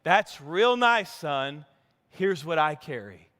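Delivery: put-on a light slow drawl of old Jed, fading low at the end; imitating Jed. Preacher quoting Jed's film line to his congregation, a light hillbilly drawl. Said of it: "What, what does he say?".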